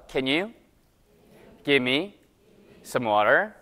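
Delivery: American English, phrase by phrase for repeating; slow American model pronunciation, rising; American accent. Shown as a demonstration. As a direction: teach "water" the American way, with a flapped t. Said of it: "미국식 발음은 지금 해드린 대로예요".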